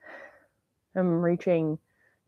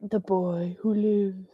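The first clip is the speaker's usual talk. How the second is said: whispered meme line; 4 dB quieter, slower than usual. Acted.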